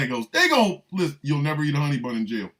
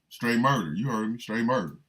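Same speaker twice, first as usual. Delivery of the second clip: much lower and softer, deadpan; mock hard-man inmate; tough inmate; 5 semitones lower, 4 dB quieter than usual. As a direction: growl it like a hardened convict. Same acted inmate.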